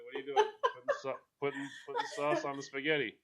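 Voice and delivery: loud, high, mock-scandalized Italian; hammed-up indignant Italian; outraged Italian. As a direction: scold like an offended Italian cook. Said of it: "someone told me".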